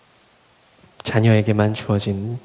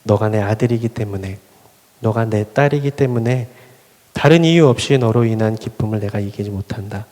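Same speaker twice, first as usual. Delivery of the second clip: tender voice of God. Retold or imitated. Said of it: "말씀하시는 말씀".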